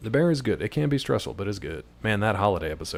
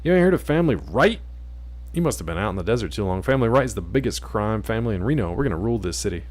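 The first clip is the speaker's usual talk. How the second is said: tough gangster voice. Acted. Voicing gang member Chris.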